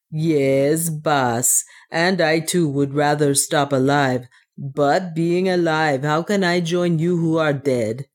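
put-on lightly accented dwarf addressing his master; measured, earnest dwarf voice, slightly foreign; resigned dwarf. Otter answers what he thinks is his dead master, resigned dwarf voice.

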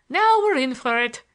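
high, loud cry to companions; yell. A narrator's reading. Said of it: "yelled Larry".

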